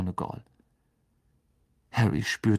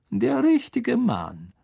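much higher, louder and slow, "richtige" drawn out; mock praise; 12 semitones higher, 4 dB louder, slower than usual. A narrator's reading. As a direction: savour the sarcasm of "richtige". Snape's mocking emphasis.

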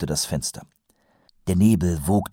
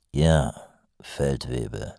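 lower, cool and curt; coolly; 5 semitones lower, 4 dB quieter, slower than usual. A narrator's reading. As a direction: shut him down coolly. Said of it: "entgegnete er kühl". (kühl entgegnet)

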